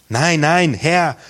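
brothers lightly voiced, calling out their denial; protesting cry. A narrator's reading. Brothers protest their innocence to Joseph, calling out. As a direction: raise the voice in urgent denial. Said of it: "riefen sie".

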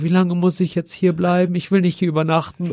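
put-on anxious child self. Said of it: "und ich so".

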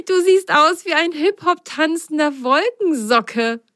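high amused teasing; laughing. Acted. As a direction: tease him, laughing. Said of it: "lachte Biene".

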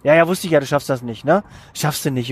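a touch of mock sympathy, sneering lightly; mild ironic mockery. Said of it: "auch Ironie".

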